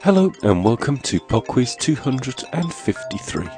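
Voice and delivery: blocked nose from a cold; sniffly nasal voice. Real, not acted. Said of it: "I apologise for my nasal and sniffly voice".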